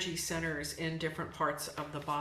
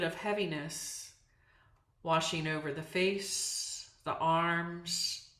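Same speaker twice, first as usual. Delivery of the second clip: calm yoga nidra guidance with long pauses; unhurried meditation teacher leaving space between phrases; guided meditation. Acted. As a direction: ease them into relaxation, phrase by phrase. Leads a guided relaxation.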